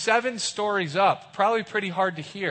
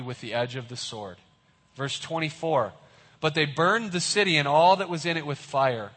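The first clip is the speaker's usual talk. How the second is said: solemn reading of the verse; scripture reading. Shown as a demonstration. Preacher reads the verse to the congregation. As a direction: read the verses aloud. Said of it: "Look at verse twenty-one".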